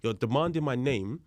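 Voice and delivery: retold protest with a touch of anger; angry. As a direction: push back firmly, mildly heated. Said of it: "I'm now, I'm angry".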